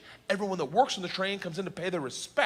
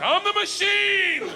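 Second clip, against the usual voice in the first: high, loud, slow proud yell; much higher, drawn-out declaration; triumphant shout; 5 dB louder, much slower than usual. Retold or imitated. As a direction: bellow it like a battle cry. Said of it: "I was like".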